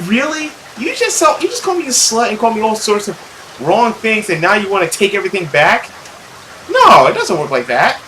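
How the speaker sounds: high, heated comeback; indignant retort. Acted. The girl rejecting her mother's apology, high and heated.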